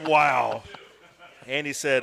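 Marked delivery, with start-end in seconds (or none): 0.1-0.6 laughing wow. Real, not acted. Laughing after big shot.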